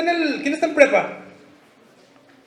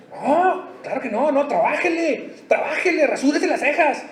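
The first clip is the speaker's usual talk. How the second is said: laughing mock Peter; 4 semitones higher than usual. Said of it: "¿A poco todo es gratis?".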